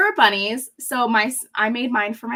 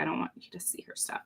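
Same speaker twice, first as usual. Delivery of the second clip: whispering; 4 semitones lower, 13 dB quieter, faster than usual. Real, not acted. Private aside about sister's area.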